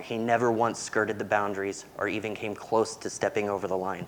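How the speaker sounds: normal talking voice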